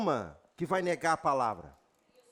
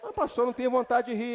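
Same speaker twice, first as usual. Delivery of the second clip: reluctant believer; 3 semitones higher, faster than usual. Retold or imitated. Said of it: "Não, irmão".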